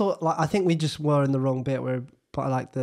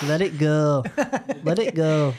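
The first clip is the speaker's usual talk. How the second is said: put-on Northern accent; 3 dB louder than usual. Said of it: "not the worst Northern accent impression".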